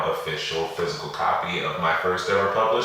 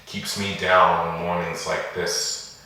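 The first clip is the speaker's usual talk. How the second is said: poem recitation. Acted. Poet reading a poem on racism and police brutality, measured recitation. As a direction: recite deliberately, with pauses between the lines.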